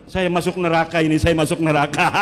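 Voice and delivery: mock a frightened zealot blurting it out; mock trembling panic. Preacher mocking a Wahabi panicking beside Christians, hammed-up and fast. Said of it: "dia ngegeter-geter".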